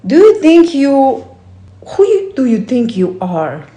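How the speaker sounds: loud, scornful, sneering; a sneering critical voice starting loud; skeptical inner voice. Acted. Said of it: "a voice that is more skeptical".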